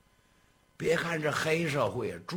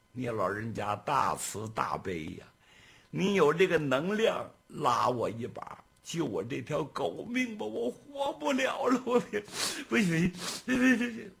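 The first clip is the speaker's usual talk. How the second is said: desperate plea; 3 semitones higher than usual. Acted. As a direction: voice climbing high into panic. Servant begs for his life.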